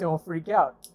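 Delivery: nervous laugh through the words. Retold or imitated. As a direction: repeat it with a laugh. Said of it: "compose your thoughts".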